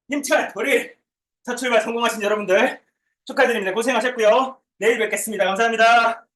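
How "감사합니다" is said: ordinary talk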